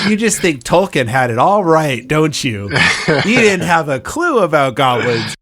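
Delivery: a lightly voiced smug goblin; haughty goblin voice. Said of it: "And they're like".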